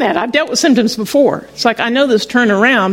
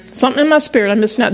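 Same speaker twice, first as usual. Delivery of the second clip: quick restatement; much faster than usual. Shown as a demonstration.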